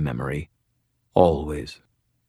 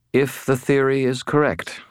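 angel voice; 8 semitones higher than usual. A narrator's reading. Fallen angel speaks in head.

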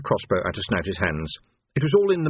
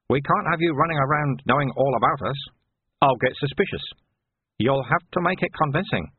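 lightly raised voice, explaining the plan; lightly voiced Sweeper, reassuring; 4 semitones higher than usual. Sweeper explains the plan to Vimes, lightly voiced and assured. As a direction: talk him through it in a slightly lifted voice.

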